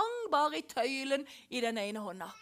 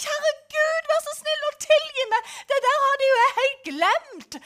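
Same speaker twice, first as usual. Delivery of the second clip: much higher, louder, tearful begging; crying for forgiveness; 10 semitones higher, 10 dB louder than usual. Retold or imitated. Man on his knees begging God to forgive, crying. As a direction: cry out to be forgiven. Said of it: "begynne å rope om tilgivelse".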